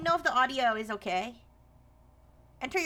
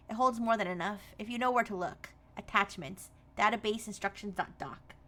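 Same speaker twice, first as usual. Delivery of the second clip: lower, measured reading voice; mail read aloud; 4 semitones lower, 3 dB quieter than usual. Acted. Streamer reads the game's job mail aloud, lower reading voice. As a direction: read the message out evenly, pitched down.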